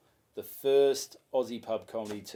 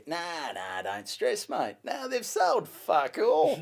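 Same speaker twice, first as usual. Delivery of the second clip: laid back country dude; 5 semitones higher, slower than usual. Retold or imitated. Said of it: "laid back country dude".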